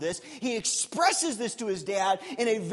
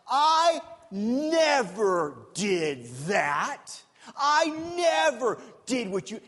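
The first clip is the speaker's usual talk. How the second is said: whiny protest; 3 dB louder, much slower than usual. Retold or imitated. Brother's whining self-defence.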